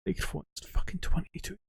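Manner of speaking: mic cutting in and out; bad connection. Real, not acted. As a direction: voice dropping out to a whisper. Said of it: "My voice is cutting out again".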